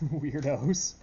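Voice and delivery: loud laughing squeal. Real, not acted. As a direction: laugh the word out. Self-mocking laugh.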